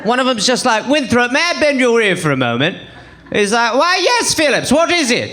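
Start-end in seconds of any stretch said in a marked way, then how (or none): 0.9-2.8 lightly voiced old British gentleman; formal, mock-British request; old English gentleman. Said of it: "two old dusty white dudes are hanging out". 3.7-5.3 higher-pitched mock-British reply; hammed-up colonial British gent; old English gentleman. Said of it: "two old dusty white dudes are hanging out".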